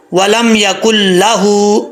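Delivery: ولم یکن لہ recited slowly; slow chant, joining the words; tajweed recitation. Shown as a demonstration. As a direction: Quranic chant. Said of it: "کاف کو لام کے ساتھ ملا کے پڑھنا ہے".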